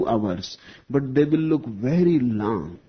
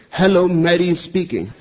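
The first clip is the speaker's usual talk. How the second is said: sexy voice; 7 semitones higher, 5 dB louder than usual. A narrator's reading. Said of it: "a wonderful and sexy voice came".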